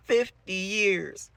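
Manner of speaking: high, loud, very drawn-out wail; hammed-up teacher wailing each syllable slowly; crazed Miss Keen. Broken teacher repeating herself, loud slow high wail. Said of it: "She goes".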